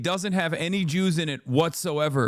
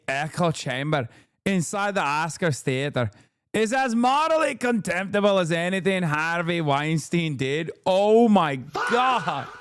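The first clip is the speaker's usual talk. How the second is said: lightly voiced Eve Barlow, reading her post with mock outrage; Eve Barlow impression. Podcast host reads Eve Barlow's Oscars post in her voice, mild mock indignation. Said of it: "this is one hundred percent your best work".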